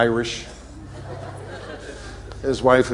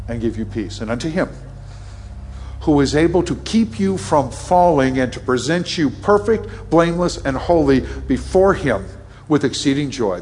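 a raised, building blessing over the people; benediction. Real, not acted. Pastor blessing the congregation at the close, rising and solemn. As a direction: pronounce the blessing with growing force.

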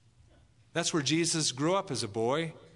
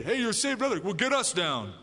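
mocking jeer; 7 semitones higher than usual. Scoffing thief taunts Jesus beside him, mocking jeer. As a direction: sneer it like a scornful thief. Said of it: "the other mocked and jeered".

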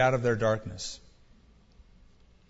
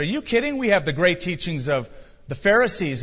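scoffing. Pretend. Jews scoff at the question.

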